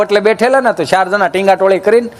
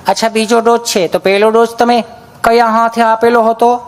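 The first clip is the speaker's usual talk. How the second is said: lightly voiced sweet nurse, a touch higher; 4 semitones higher than usual. Nurse asking Gabho about his dose, sweetly voiced. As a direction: ask it the way a kind nurse would. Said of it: "nurse બેન".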